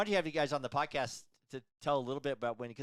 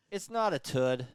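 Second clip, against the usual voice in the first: put-on light Boston accent, dropped r in tud; imitating a Boston kid saying tud; 4 dB louder, slower than usual. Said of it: "She was born with a Boston accent".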